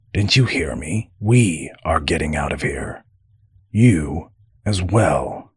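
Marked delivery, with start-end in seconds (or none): none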